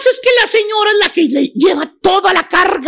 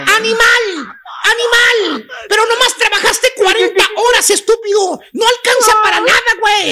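angry wife. Acted. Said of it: "toda enojada la señora".

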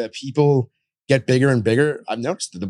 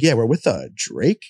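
hesitant name drop; slower than usual. Retold or imitated. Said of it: "And he's like".

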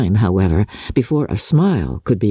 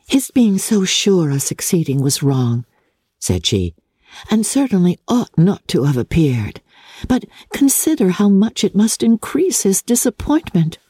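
put-on a lightly raised, gentle young woman's voice; lightly voiced gentle sister; Jane's voice; 5 semitones higher than usual. Jane speaks to Elizabeth.

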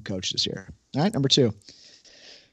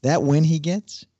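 infomercial voice. Acted. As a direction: hype it like a TV ad. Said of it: "starting the year off with a little infomercial voice".

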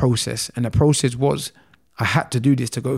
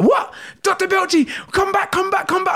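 retold shout. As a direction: shout him back in disbelief. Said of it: "I remember shouting".

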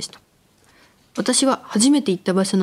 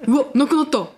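laughing; 4 semitones higher, slower than usual. Real, not acted. Nori vanished while talking.

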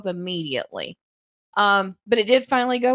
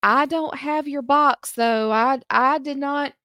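put-on spry old voice; 4 semitones higher than usual. Old lady voiced in story.

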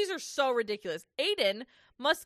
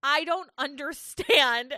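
high, worked-up disbelief; passionate rant; 3 semitones higher, 5 dB louder than usual. Real, not acted. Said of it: "I'm sorry I'm getting so passionate".

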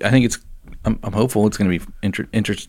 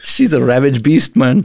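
Irish attempt landing near South African; badly faked Irish accent, played for laughs; botched Irish accent; 4 dB louder than usual. Prisoner warning others about his mom, bad Irish accent. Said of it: "It sounds more South African".

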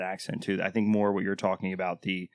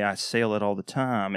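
put-on Southern Texas accent. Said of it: "you got a Southern Texas accent".

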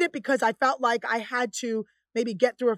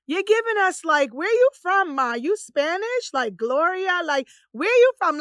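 higher, lively imitation of people quizzing her; retold nosy questioner; 5 semitones higher than usual. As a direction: imitate someone nosily asking about origins. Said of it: "some people would say to me".

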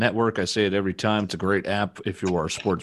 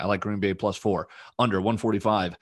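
auctioneer voice. Pretend. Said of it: "I'm talking like an auctioneer".

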